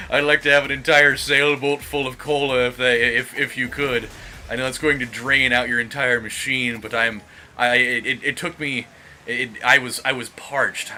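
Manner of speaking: mock Kuwaiti accent. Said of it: "what a Kuwaiti, uh, accent sounds like".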